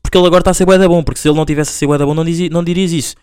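mocking doubter. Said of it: "havia lá um gajo que dizia".

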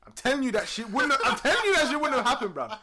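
high, loud laughing repeat; telling friends, laughing hard; laughing insistence. Real, not acted. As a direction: insist while cracking up.

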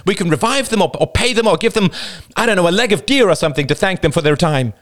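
put-on lightly high young man's voice; high voiced character. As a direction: lift the voice for another character. Character voice in story.

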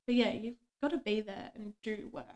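whispering. Real, not acted. Trailing explanation.

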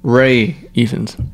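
"Ray" with no final s; "Ray Ifans", slow, first name as open "Ray"; Ray pronunciation. Shown as a demonstration. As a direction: say "Ray" to rhyme with "day". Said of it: "pretty sure it's pronounced Ray".

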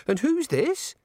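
put-on high-pitched girlish curiosity; happy. A narrator's reading. Young woman asking Granny about her companion, happily. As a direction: ask sweetly, far up in pitch. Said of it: "said the girl happily".

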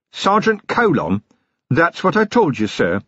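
high Scottish wee man, patient; Scots Feegle voice. A narrator's reading. Wee Mad Arthur voiced.

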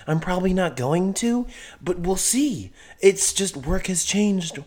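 lightly put-on country ranting voice; country accent. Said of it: "best country accent I've ever heard".

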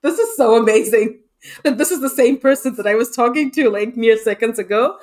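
high, quick, amazed exclaiming. Retold or imitated. Coworker marvelling at a colleague's switch into a Newfoundland accent, amazed. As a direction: gush over the switch in wonder. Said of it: "And I'm like".

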